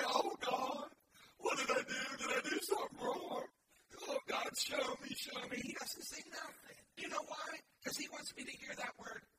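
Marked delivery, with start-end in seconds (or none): 0.0-5.6 loud, pleading cry to God; pleading prayer. Retold or imitated. Preacher acting out his own prayer, loud and pleading. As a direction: beg God for an answer. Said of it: "I get on my knees and I pray".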